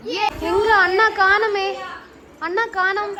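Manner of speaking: playful. Acted. Playing hide and seek with toddler.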